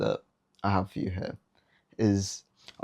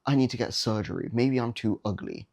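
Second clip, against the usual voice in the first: whiny rejected guy; 3 semitones higher than usual. Retold or imitated. Rejected guy spiralling after a girl says no, mock whine. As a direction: ham up a self-pitying meltdown. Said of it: "that dickhead guy that's like".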